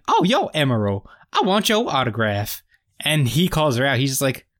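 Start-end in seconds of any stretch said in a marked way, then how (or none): 0.1-2.6 lightly mock a Southern accent; weird Southern accent. Imitating an actress as a fan greeting a celebrity chef, mock Southern accent. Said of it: "weird Southern accent".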